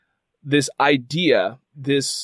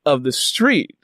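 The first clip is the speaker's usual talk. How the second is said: firm refusal; 4 semitones higher than usual. Retold or imitated. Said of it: "I had to step back and say".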